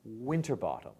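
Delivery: Winterbottom stressed on WIN; the likely way to say Winterbottom; likely pronunciation. Shown as a demonstration. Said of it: "more likely it's pronounced".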